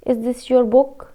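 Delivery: "book" lifts up at the end of the question; rising tone. Shown as a demonstration. Teacher showing students a question, rising tone. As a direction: ask "Is this your book?" with the voice rising on "book". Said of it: "rising tone".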